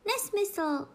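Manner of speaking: high, decisive retort; rozhodně. A narrator's reading. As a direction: cut in firmly, pitched high. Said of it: "řekla Alenka velmi hlasitě a rozhodně". (rozhodný, vysoko položený hlas)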